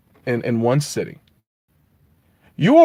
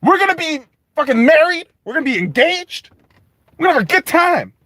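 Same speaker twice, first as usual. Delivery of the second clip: much higher, giddy lovestruck voice; mock-dreamy Frodo, pitched way up; smitten Frodo; 11 semitones higher than usual. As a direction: gush like a besotted hobbit. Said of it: "you're like".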